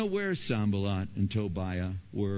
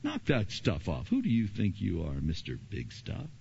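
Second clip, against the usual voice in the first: mocking enemy; 2 semitones lower, 3 dB quieter than usual. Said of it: "now he'll come at you with".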